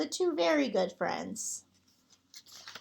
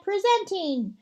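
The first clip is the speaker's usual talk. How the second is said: higher, louder announcer calling from far off; strange announcer voice; 6 semitones higher, 4 dB louder than usual. Acted. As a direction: present him like a grand showman. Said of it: "a strange voice from far away said".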